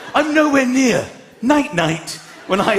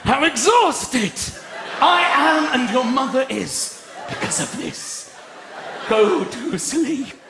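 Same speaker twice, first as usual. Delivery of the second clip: mock furious dad; 6 semitones higher than usual. Dad ranting at children.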